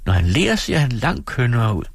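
høj, langsom og kælen; kælen pigestemme. Acted. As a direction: lok ham til at smile. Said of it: "sagde Dora". (Dora kæler for sin mand)

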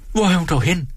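a flustered landlady wailing at the pot; flustered hostess. Acted. Frantic hostess fussing at the stove that won't boil.

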